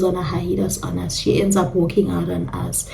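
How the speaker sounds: whispered aside. Real, not acted. Unvoiced line in story.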